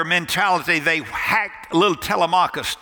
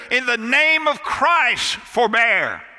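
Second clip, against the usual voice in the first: high, slow pleading cry, only slightly louder; cried out; 5 semitones higher, slower than usual. Retold or imitated. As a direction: call out over the arena, pitch raised and drawn out. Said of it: "he cried out as loud as he could".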